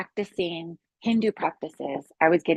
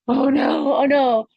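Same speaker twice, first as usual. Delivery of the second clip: retold alarm; 5 semitones higher, 4 dB louder, slower than usual. Acts out alarm at second pop.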